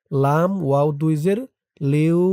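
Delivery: লিউ read joining লাম to ওয়াও in one breath; joined in one breath. Shown as a demonstration. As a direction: run লিউ together without stopping. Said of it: "এভাবে একটানে পড়তে হবে". (লিউ একটানে মিলিয়ে পড়া)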